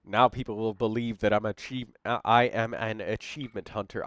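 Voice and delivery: stuffed-up nose; talking through a blocked nose. Real, not acted. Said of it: "because my nose is so stuffed up right now".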